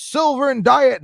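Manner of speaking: high, loud imitation of his call; mimicked outburst. Retelling what he goes on to say, high loud mimicry. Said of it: "He goes".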